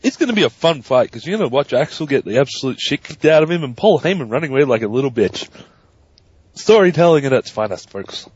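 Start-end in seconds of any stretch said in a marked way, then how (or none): 0.0-5.5 audible big grin, relishing the coming fight; grinning anticipation. Real, not acted. Co-host predicting a fun fight, grinning with anticipation. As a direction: talk through a wide, expectant grin. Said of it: "great big grin of anticipation on his face".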